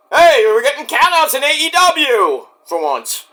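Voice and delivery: high-pitched mock-excited announcement; sudden high burst of feigned amazement; excited call. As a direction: crow it out, high and loud-ish. Mock excited aside in recap.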